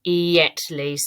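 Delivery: IMMEDIATELY broken into slow, stretched syllables; slow sounding-out. Shown as a demonstration. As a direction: hunt for the missing sound in "immediately", slowly. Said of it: "I've said it slowly".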